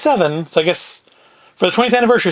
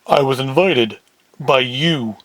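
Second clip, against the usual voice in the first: lower, lightly voiced gangster character; a hint of a deeper-voiced heavy; deeper Big Sam voice; 5 semitones lower, slower than usual. Big Sam answering Rabbit Ears, slightly deeper voice. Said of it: "Big Sam in the deeper voice".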